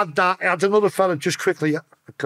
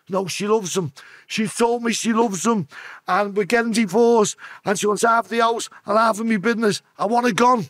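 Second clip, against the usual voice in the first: higher, louder, slowed-down insistence; desperate husband; 5 semitones higher, 3 dB louder than usual. Retold or imitated. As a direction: voice the jilted husband pushing his demand. Client demanding wife be dealt with.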